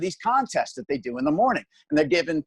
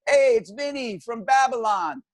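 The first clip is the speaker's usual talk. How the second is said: much higher, slow put-on caller voice; Long Island caller; 7 semitones higher than usual. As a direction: play a cocky local caller. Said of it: "they like".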